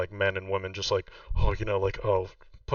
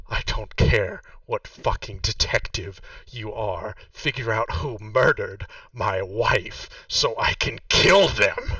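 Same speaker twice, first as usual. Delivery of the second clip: slow, deliberate threat building louder; low menace; 4 dB louder, slower than usual. Acted. Widower demanding his wife's killer, slow simmering menace. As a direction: start contained, drag it out, then swell on the kill. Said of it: "gets kind of low. This whole time he's been yelling".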